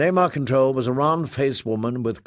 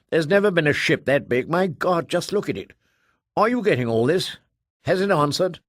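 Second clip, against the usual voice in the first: higher, breathless amazement; awed ship captain; 5 semitones higher than usual. Acted. Woman on the ship gaping at the Ark, amazed. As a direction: marvel at the huge ship.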